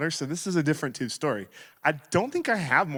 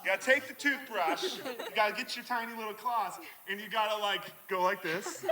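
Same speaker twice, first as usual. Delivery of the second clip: lightly voiced playful dinosaur, higher and much softer; Brushosaurus demo; 5 semitones higher, 10 dB quieter than usual. Shown as a demonstration. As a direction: creep in like a tiny-clawed dino. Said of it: "it looks kinda like this".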